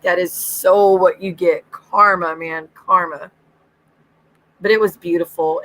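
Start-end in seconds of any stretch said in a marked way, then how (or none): 0.0-3.3 gloating. Retold or imitated. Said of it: "And I'm like".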